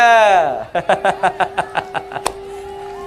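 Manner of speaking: light laugh. Real, not acted. Laughs at own joke.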